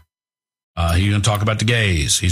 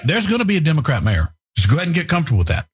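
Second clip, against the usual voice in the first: taunting shout; 3 semitones higher, 9 dB louder, much faster than usual. Acted. Host taunting listeners.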